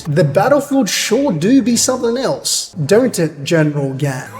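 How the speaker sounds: lightly put-on Eastern accent; folksy turn of speech, a hint of Eastern accent. Officer to General Gan, lightly accented. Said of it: "Why is he talking like this?".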